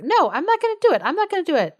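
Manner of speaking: high-pitched, whiny pretend fit; mock tantrum. Nobleman refusing marriage in front of the king, mock tantrum. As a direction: throw a hammed-up tantrum. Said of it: "pitches a fit in front of".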